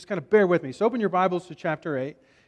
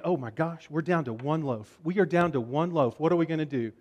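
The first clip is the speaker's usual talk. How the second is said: softer, understated mock worry; hushed fretting; 3 semitones lower, 5 dB quieter than usual. Disciples worrying about having one loaf left, hushed fretting. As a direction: fret under your breath, lightly acted.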